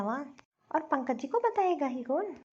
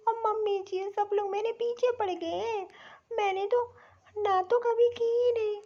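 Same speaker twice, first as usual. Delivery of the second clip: high, whimpering put-on tears, slowed down; new bride fake-crying to her husband about the mother-in-law's scolding; 5 semitones higher than usual. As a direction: whine and sob to win the husband over. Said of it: "तो इसमें रोने वाली क्या बात है?".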